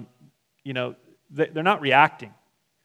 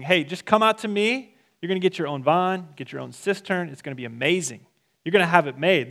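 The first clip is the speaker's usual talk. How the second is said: mock sales pitch; 3 semitones higher than usual. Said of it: "what he's promising".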